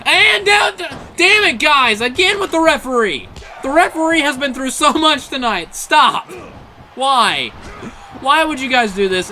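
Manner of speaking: high, loud outraged protest at the wrestlers; exasperated yelling. Real, not acted. Commentator yelling at wrestlers who flattened the referee again, outraged. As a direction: shout it at the ring, fed up.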